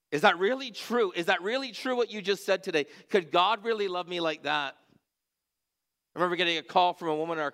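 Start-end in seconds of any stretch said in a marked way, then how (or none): 0.1-4.8 higher, pleading retold question; weeping brother on the pastor's shoulder asks, higher pleading voice; tearful plea. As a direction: voice the weeping young man's plea, pitched up. Weeping young man asks pastor.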